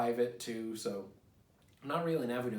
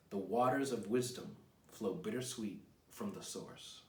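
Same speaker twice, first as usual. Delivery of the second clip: measured, unhurried poem reading. Acted. Reads his own poem aloud.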